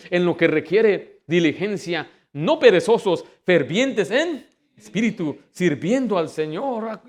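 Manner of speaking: slow, forceful reading of a verse; emphatic scripture preaching. Real, not acted. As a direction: proclaim the verse in slow, weighty phrases. (lectura bíblica predicada con énfasis)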